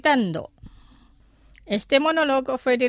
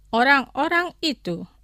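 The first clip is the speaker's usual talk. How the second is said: careful, measured model phrase; slow pronunciation; 2 semitones higher than usual. Shown as a demonstration. Teacher models vocabulary for listeners to repeat, slowly. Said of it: "Los pronunciaré lentamente".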